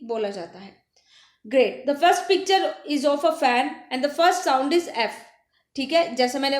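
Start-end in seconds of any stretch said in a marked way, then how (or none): 1.4-5.2 put-on slow, deliberate English for young learners; slow teacher read. Teacher reading the worksheet line to children, slow and clear. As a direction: read the line slowly to the class.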